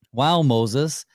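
ordinary delivery

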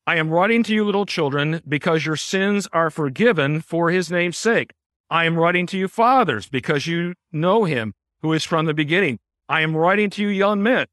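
steady repeated beats on writing, like a drum; rhythmic reading. Shown as a demonstration. Pastor reading the letter aloud to show its rhythm, drumbeat reading. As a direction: read like a drumbeat, each line hitting writing. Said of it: "let me give you just a little bit of this".

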